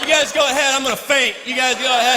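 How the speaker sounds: out-of-breath jogger falling behind, hammed-up; mock exhausted jogger. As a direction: wave the others on, fake fainting.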